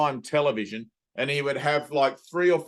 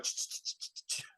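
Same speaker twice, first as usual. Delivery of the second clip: soft unvoiced ch-ch snipping noises; scissor snips; 14 dB quieter than usual. Teacher imitating a hairdresser's scissors, quiet snipping ch sounds. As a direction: whisper the clicks of scissors cutting. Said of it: "with his scissors and he'd be like".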